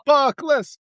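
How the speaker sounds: imitating a Yooper movie line; mock Yooper accent. Quoting Escanaba in the Moonlight.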